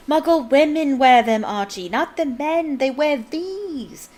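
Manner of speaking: high exasperated protest, slowing right down; plead, dragging out the last words. A narrator's reading. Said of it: "almost crying with exasperation".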